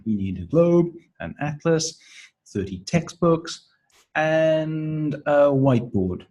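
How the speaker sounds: globe, atlas, textbooks rise, whiteboard falls; list intonation. Shown as a demonstration. Fourth participant in the memory game, rising items, falling whiteboard. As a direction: lift each item, stretch "and", drop on "whiteboard". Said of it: "has a rising intonation".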